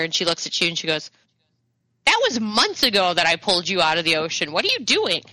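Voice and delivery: lightly voiced old woman, pitch jumping up at the end; a touch of an incredulous old lady. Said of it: "the old lady kinda gives you".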